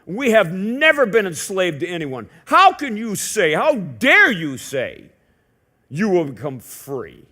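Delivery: how dare you, drawn out and loud; indignant. Retold or imitated. Crowd answering Jesus, slow, loud and indignant. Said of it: "They answered him".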